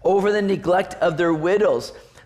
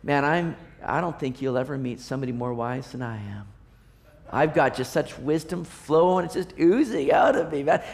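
mock boasting; 4 semitones lower, 3 dB quieter than usual. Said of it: "walk around and go".

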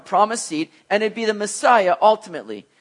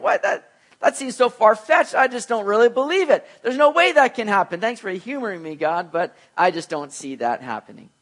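doubting listener; 3 semitones higher than usual. Pretend. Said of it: "We'd all be sitting here going".

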